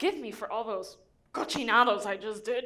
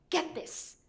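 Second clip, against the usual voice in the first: whispered aside; 3 semitones higher, 5 dB quieter than usual. Real, not acted. Telling viewers about Hialeah, in a conspiratorial whisper. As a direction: whisper it like a secret. Setting up a punchline.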